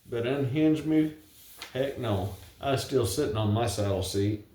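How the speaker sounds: reciting a rhyming ballad; poem recitation. Acted. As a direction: tell it like a cowboy poem at a gathering. Recites his cowboy poem.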